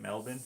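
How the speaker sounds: "Melbourne" as MEL-bin, rising as a question; checking pronunciation. Shown as a demonstration. Streamer asking viewers, questioning "Melbourne" as MEL-bin. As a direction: ask "Melbourne" with a short "bin" ending. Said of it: "That's how you say it?".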